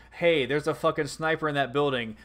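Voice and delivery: radio call for fire, steady; calm radio call for fire. Pretend. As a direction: call in artillery over the radio.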